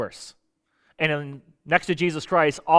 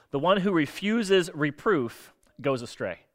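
careful slow reading; 3 dB quieter, slower than usual. Real, not acted. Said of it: "that's a tongue twister".

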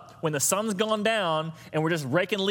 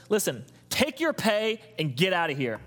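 landowner's retort; 2 semitones higher than usual. Retold or imitated. Pastor voicing the landowner's blunt dismissal. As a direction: send them off bluntly. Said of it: "I would just say it the way I would have said it".

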